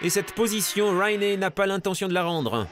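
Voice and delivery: live race play-by-play; motorsport commentator. Acted. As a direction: call the lead change live.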